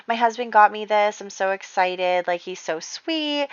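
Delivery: mock-gush about the sweet husband; gushing sweetly. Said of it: "She's being all sweet about it".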